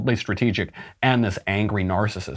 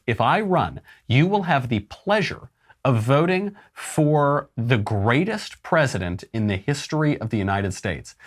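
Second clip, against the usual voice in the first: slow, lightly voiced boastful candidate; a hint of a showman promising greatness, drawn out; Donald Trump; 3 semitones higher than usual. Retelling Trump's roast boast to the crowd, light impression. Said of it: "He says".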